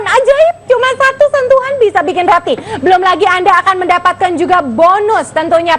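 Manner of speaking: eager sales pitch, call now; hard sell to viewers watching live; infomercial. Acted. Host pushes discount and bonuses. (gaya promosi penjualan yang bersemangat)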